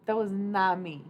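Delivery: loud, startled disclaimer; loud amazed protest; shocked denial. Real, not acted. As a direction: deny it in disbelief. Denying the voice crack.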